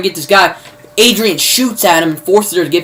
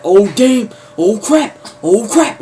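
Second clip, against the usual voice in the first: higher-pitched imitated dismay; mock alarm; 4 semitones higher, slower than usual. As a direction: play a man caught at gunpoint, half-hearted. Imitating man held at gunpoint.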